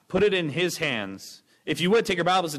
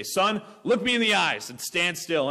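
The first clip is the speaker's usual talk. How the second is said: lightly voiced stern dad, a little higher; lecturing father; 4 semitones higher than usual. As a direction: imitate a dad telling off his son. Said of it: "my dad would lecture me".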